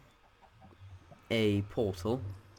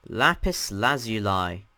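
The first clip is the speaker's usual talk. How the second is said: louder, slow, deliberate announcing; announcer call; 5 dB louder, slower than usual. Real, not acted. Host naming the next dimension for viewers, slow loud announcement. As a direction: announce it slowly and loudly.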